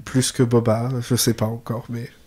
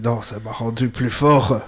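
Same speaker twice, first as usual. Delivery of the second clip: put-on slow line in a light German accent; accent allemand; 3 semitones lower than usual. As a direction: slip into an accidental German accent, slowly. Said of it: "Pourquoi j'ai fait un accent allemand?". (léger accent allemand, débit lent)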